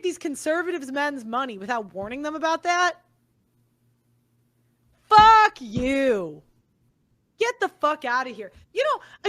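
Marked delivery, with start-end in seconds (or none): 5.0-8.5 loud fuck you, then a sharp get out; real anger, yelled; angry yell. Real, not acted. Yelling at the show host, real anger. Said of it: "I am pissed".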